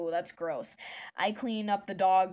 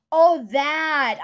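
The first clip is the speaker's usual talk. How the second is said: surprised recognition; 7 semitones higher, 13 dB louder than usual. Real, not acted. Recognizes the Wii music meme.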